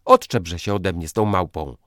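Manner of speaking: angry cry. A narrator's reading. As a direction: call out in exasperation. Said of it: "zawołała".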